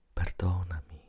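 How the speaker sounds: tearful. Acted. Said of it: "con la voce rotta dal pianto".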